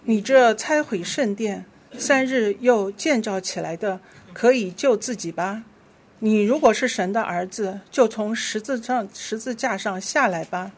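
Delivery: emphatic, clearly phrased Bible reading; scripture reading. Real, not acted. Passers-by mock Jesus on the cross, emphatic scripture reading. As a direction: read the challenge out firmly to the congregation. Reads mockers' words in scripture.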